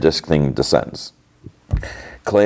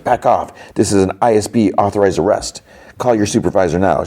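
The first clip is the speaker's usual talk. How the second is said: raised-pitch imitation of an agent giving orders; mock official command; 4 semitones higher than usual. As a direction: act out pulling rank on a guard. Agent orders guard back at gunpoint.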